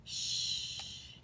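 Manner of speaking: unvoiced hiss to hush; shushing. A narrator's reading. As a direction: hush him quickly. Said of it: "said his mother".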